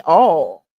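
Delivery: "all" drawn out slowly, the Louisiana way for oil; saying all for oil. Shown as a demonstration. Explaining her Louisiana way of saying oil, slow "all". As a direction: say "all" long and open, like all. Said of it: "'Cause we say all".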